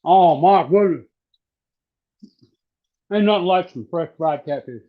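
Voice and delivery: talking through a mouthful; words round a bite of fish; mouth full. Real, not acted. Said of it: "didn't Mama ever teach you not to talk with your mouth full".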